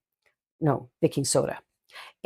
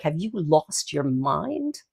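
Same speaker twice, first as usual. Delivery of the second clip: put-on girlfriend's look; much slower than usual. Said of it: "My girlfriend's looking at me like".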